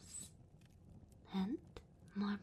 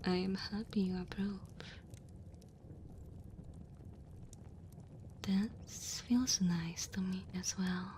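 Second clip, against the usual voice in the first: tender dragon woman. Acted. Dragon woman warming a human by her fire, tender. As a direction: comfort the cold guest, gentle and unhurried.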